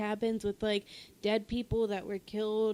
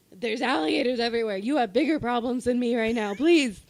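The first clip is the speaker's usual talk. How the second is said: exasperated plea; 6 dB louder than usual. Retold or imitated. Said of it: "and I'm like".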